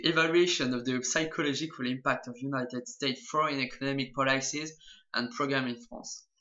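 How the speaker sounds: English title read with a heavy French accent. Real, not acted. Vlogger reading a CIA report title in his poor English accent, French-accented English. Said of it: "mon pauvre accent anglais".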